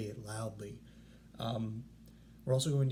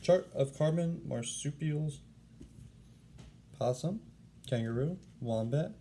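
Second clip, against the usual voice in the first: a lightly voiced koala schooling the reader; lecturing koala. Warren's rhyme to the class.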